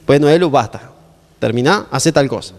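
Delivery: low, mildly stern parent; serious voice. Retold or imitated. Father telling Elu to stop playing, low serious voice. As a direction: imitate a parent calmly laying down the rule. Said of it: "medio que pone la voz seria".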